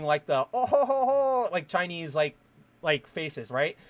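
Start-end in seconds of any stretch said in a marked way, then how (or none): 0.5-1.5 retold mocking voice, higher; imitating a derisive caricature laugh; higher, hammed-up mocking "ho, ho"; mock racist caricature. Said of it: "Adam Sessler doing".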